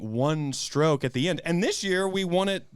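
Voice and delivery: normal talking voice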